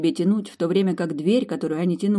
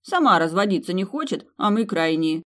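snapping back; 2 semitones higher than usual. Acted. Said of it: "огрызнулась она".

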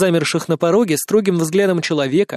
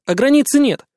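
higher, louder, firm; convinced; 8 semitones higher, 4 dB louder than usual. A narrator's reading. Narrator insists to Svetlana, firmly convinced. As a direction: state it with conviction. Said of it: "убеждённо сказал я".

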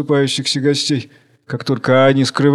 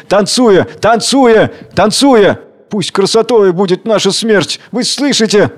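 put-on defiant girl shaming the crowd; defiant call; 5 semitones higher than usual. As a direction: throw the challenge at the cowards.

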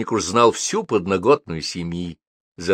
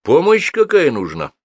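slow, high, puzzled question; louder, drawn-out bewilderment; bewildered; 7 semitones higher, 6 dB louder, slower than usual. A narrator's reading. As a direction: ask as if at a loss. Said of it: "Недоуменно поинтересовался Гордей".

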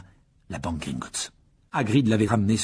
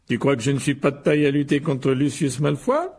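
higher, affronted character voice; indignant; 4 semitones higher, 4 dB louder than usual. Acted. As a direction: protest as if your pride is hurt. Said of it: "s'indigna Monsieur Weasley". (indignation piquée)

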